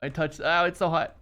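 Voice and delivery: talking through a burned finger; wincing, shaking off the burn; burnt fingertips. Real, not acted. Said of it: "I touched the hot thing".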